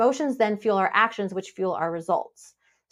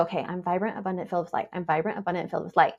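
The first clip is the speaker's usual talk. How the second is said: quiet mantra; 4 semitones lower, 5 dB quieter, faster than usual. Retold or imitated. Calming mantra to self.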